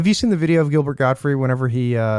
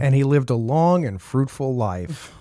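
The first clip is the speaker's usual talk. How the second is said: storybook ending; slower than usual. Pretend. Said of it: "that's what you tell the kid".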